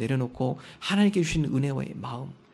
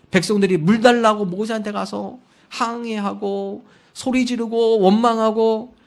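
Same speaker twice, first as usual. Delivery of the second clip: ordinary talk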